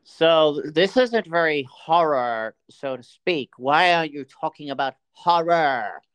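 whiny listener voice. Retold or imitated. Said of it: "you're probably sitting there going".

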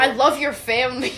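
mock creepy stalker, laughing; creepy man voice. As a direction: say it like a creepy stranger. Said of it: "Creepy man".

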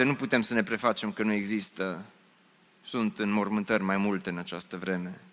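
hushed. Acted. Sermon on death, grief.

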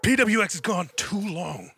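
slow booming promo voice; wrestling promo. Acted. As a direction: hype it up like a wrestling heel. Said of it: "Just cut a promo for Brian as martial law".

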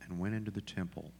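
scripture reading. Acted. Pastor closing the scripture reading for the congregation, measured scripture reading. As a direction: read it solemnly with pauses between phrases.

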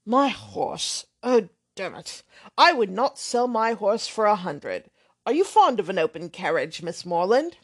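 put-on brash, offhand young man swearing lightly; blustering braggart.

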